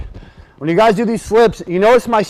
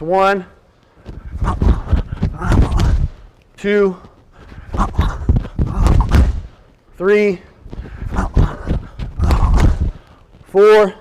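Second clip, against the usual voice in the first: boxing coach calling combos; much slower than usual. Shown as a demonstration. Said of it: "live speed".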